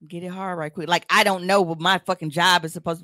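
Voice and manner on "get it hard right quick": low mumbled demand. Retold or imitated. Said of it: "But, but".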